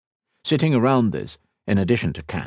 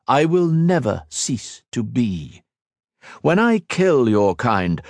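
a lightly voiced immortal villain, scornful; villain Shinzan mocking Ethan's sacrifice, lightly voiced and scornful; cold villain; 6 semitones higher, 3 dB louder than usual. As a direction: sneer down at a mortal, unhurried. Shinzan boasts of being eternal.

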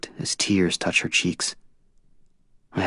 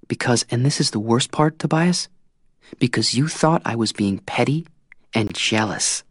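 higher young woman's voice, bitter and mocking; Tris, bitter; 8 semitones higher than usual. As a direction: Tris throwing his doubts back at him.

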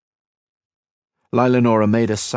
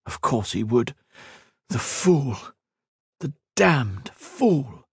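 contemptuous huff; 5 semitones higher, slower than usual. Acted. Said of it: "Lilanora huffed".

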